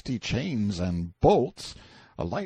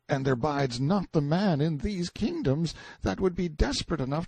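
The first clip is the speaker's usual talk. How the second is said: put-on high, cowering boy's voice; fearful confiding; 7 semitones higher than usual. A narrator's reading. Boy tells prisoner of forbidden things, fearful. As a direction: confide awful news in dread, high but voiced. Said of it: "told me his fearful news in a whisper".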